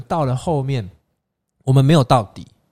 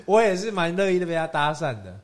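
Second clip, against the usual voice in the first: coy giggle; 7 semitones higher than usual. Retold or imitated. Guide's coy admission, laughing.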